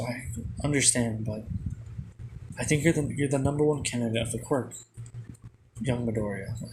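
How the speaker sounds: normal talking voice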